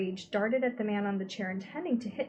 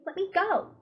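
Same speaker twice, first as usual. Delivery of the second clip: much higher, sharp order; sharp command; 10 semitones higher, 4 dB louder than usual. A narrator's reading. Charles Wallace ordering his sister to release him. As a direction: demand it sharply. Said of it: "Charles said sharply".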